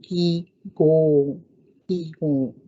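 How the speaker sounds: "ki go" with long ee and long o; long vowels. Shown as a demonstration. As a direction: model "ki go" slowly. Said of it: "that's how we pronounce that word".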